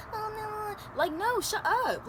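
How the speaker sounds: high, slow mocking voice; mocking know-it-all. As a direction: mimic a pushy know-it-all. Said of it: "Somebody coming to you like".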